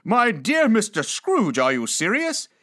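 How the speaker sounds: loud disbelief easing into a question; breathtaken astonishment. Acted. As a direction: draw out the name in amazement, then question. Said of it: "as if his breath were taken away".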